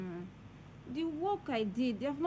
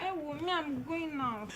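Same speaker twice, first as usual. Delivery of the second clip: tearful; 4 semitones higher than usual. Acted. Son overwhelmed by the quarrel.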